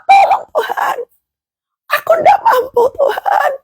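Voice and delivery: high, strained crying shout; a broken wail for help, voice cracking; crying out to God. Acted. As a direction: plead with God through tears. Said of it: "Pengennya cuma".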